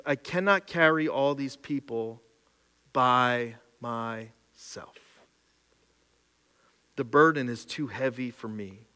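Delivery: soft, near whispered lament; hushed despair. Acted. Preacher reading Moses' despair to the congregation, soft and hushed. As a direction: let Moses' burden sink into a hush.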